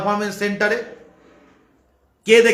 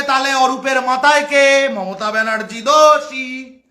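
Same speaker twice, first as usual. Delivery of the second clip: hammed-up satirical recital; mocking. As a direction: spell out the scheme in mock earnest. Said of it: "এরম খোরাক করে কেন বলি".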